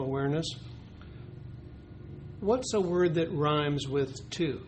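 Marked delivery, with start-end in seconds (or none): 2.4-4.6 slow, clear teacher question to the class; teacher asking the class. Shown as a demonstration. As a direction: ask it like a teacher at circle time. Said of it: "That's what a teacher would say".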